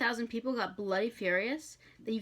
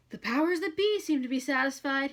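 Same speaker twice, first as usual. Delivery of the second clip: Crowley voice; 7 semitones higher, 6 dB louder than usual. Acted. Crowley addressing demons.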